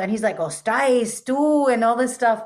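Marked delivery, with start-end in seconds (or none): 0.4-1.7 Ostais said with a Castilian th sound, tú rising higher and louder; Castilian Spanish with a th; Castilian lisp. Shown as a demonstration. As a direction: show off the old Spaniard th sound. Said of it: "he speaks like this with a th".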